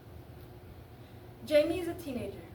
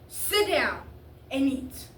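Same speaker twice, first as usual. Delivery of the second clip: loud, harsh father's command; stern raised-voice order; 5 dB louder, slower than usual. Acted. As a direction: shut the protest down with force. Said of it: "that was harsh for him".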